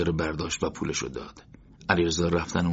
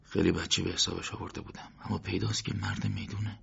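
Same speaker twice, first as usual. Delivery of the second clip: soft, inward thought, quieter; quiet inner voice; to himself; 7 dB quieter than usual. Acted. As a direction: muse privately, half aloud. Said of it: "با خود گفت".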